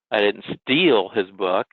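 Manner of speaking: steal stretched and rising, slow; stress on STEAL. Shown as a demonstration. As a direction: hit the word steal slowly. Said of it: "emphasize the word that's highlighted".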